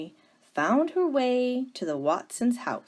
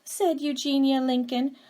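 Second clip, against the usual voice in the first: put-on firm, louder voice of a stern older sister; stern Eugenia; 4 semitones higher, 8 dB louder than usual. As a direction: scold it like a no-nonsense spinster. Eugenia scolds her sister.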